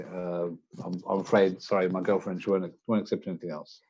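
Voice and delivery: softly spoken, halting apology; sheepish, quiet excuse with small stumbles; apologetic customer. Acted. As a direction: apologise awkwardly to the shopkeeper. Player acts apologetic customer at counter.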